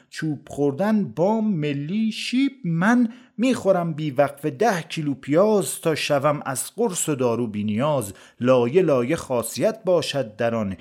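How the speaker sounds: measured storytelling poem recital; verse recitation. A narrator's reading. Narrator tells a comic verse tale of onions, recited verse. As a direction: recite it as rhymed verse, leaning on the metre.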